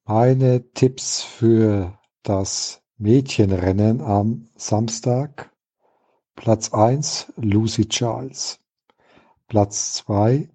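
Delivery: mock PA announcement; through a megaphone. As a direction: announce it like over loudspeakers. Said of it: "eine wichtige Durchsage".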